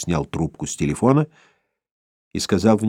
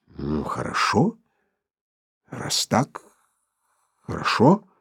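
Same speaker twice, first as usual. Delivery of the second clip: defeated; 2 semitones higher, 3 dB quieter, slower than usual. A narrator's reading. Vitaly gives in, defeated.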